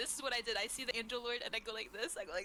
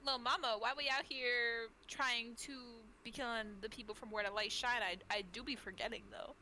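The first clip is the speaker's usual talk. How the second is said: sassy slang. Acted. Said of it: "And I say".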